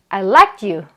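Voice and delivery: "liked you" run together as likt-you; linked t ending. Shown as a demonstration. Teacher modelling a sentence for learners, "liked you" linked with t. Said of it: "요렇게 발음이 됩니다".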